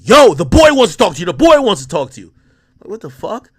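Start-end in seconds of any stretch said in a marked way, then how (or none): 0.0-2.3 urgent repeated call. Retold or imitated. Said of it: "a rapper and fifty other niggas hit me".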